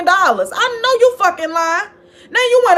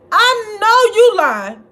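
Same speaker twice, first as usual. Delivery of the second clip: high, loud and slow, dragging it out; drawn-out disbelief; 5 semitones higher, 3 dB louder, slower than usual. Real, not acted. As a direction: stretch each word in sassy disbelief. Catchphrase at Kevin's claims.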